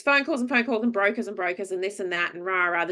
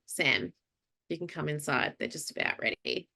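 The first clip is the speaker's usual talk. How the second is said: a hint of a low calm man; lightly voiced guy; 3 semitones lower, 6 dB quieter than usual. Airport guy calling her inside, low and calm. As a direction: lower and a bit softer, like the staff guy.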